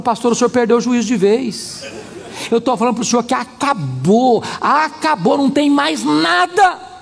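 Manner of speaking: mock exasperation, climbing in pitch toward the end; retold insistence, slowing on the final words; exasperated. Woman insisting to pastor the marriage is over, exasperated.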